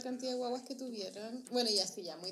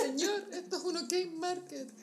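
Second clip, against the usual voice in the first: quoting meme; 6 semitones higher than usual. Retold or imitated. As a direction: deliver the meme line with a laugh. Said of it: "quoting a meme, laughing".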